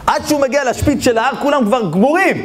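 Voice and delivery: high-pitched, building parable climax; climactic storytelling. Real, not acted. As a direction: drive the story to its peak, voice high. (שיא הסיפור בקול גבוה)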